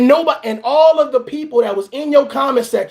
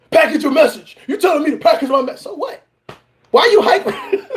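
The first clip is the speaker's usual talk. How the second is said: put-on childish whine. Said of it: "you sound like a child".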